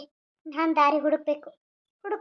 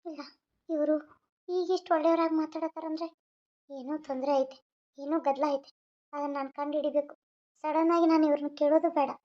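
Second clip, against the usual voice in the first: soft, hushed thinking aloud; quiet aside; 7 dB quieter than usual. Acted. Wife suspects trouble and thinks aloud, softly. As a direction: murmur it under your breath.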